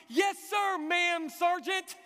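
high, loud recruit's bark; punchy mock army shout; shouted military response. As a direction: imitate a recruit sounding off. Next recruit answers the sergeant.

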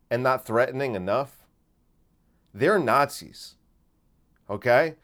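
loud warning. Retold or imitated. Buddy warning about Nazi bouncers.

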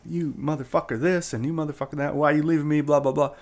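half-hearted mock yelling; retold scream. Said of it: "I'm being screamed at".

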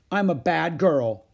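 put-on loud, high, slow little-kid boast; cheerfully shameless child; winning confession. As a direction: confess it proudly, smiling.

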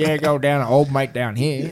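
slow, drawn-out broad Australian; slow Aussie drawl. Shown as a demonstration. Showing that Australians speak slowly, in a slow Australian drawl. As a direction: stretch it out lazily like a thick Aussie. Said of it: "if we're slow and being like".

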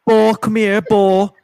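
high, loud sing-song call across the room; calling the dog. Retold or imitated. Imitating Alexa calling the dog Bo, high and loud. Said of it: "It's like".

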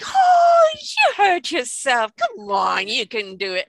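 jolly her past the tumble; hint of a no-nonsense grandma; brisk grandma. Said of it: "it's like".

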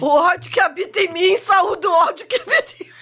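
fala rindo alto; paródia entre risos. Pretend. Parodies namaste, laughing. (rindo ao parodiar o namastê)

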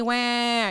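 mock crying wah. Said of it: "Like that whiny voice".

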